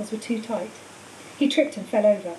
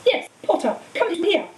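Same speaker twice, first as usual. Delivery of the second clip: commanding call; 8 semitones higher than usual. A narrator's reading. Quirrell orders Harry.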